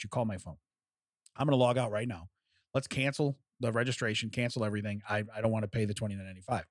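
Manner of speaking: retelling a calm, polite request, voice settling down; retold chill manner. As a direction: keep it chill while asking for a refund. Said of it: "I'm being chill".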